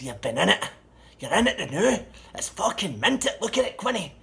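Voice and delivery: very high, loud, outraged acted rant; raging. Seller defends his car to the doubting buyer, raging. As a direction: protest at full pitch, loudly. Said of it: "he was fucking raging".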